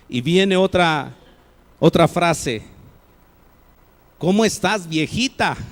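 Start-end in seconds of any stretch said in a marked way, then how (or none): 4.2-5.6 after years of quarrels, greet her with mild irritation; weary, worn greeting. Shown as a demonstration. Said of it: "han pasado los años y han tenido sus conflictos".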